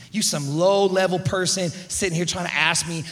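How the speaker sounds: mock self-important put-down; acted condescension. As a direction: brush off a lowly gardener. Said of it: "to Jesus like this".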